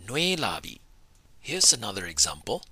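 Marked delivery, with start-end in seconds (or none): 0.1-0.8 nui lifted high in tone. Shown as a demonstration. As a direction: raise the pitch on nui, high tone. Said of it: "you have to raise your voice and say".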